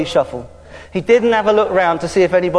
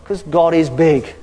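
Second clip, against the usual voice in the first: big voice; 4 semitones lower, slower than usual. Acted. Contrasting God's bigness.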